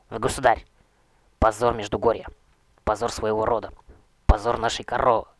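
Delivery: loud, outraged accusing shouts; furious denunciation. Acted. Young knight shouting his accusations at the necromancer king, outraged.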